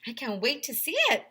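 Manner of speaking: a hint of the English accent, eager; light English lady. English record lady eager to see the pizza, light English accent. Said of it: "said the Guinness Book of World Records lady".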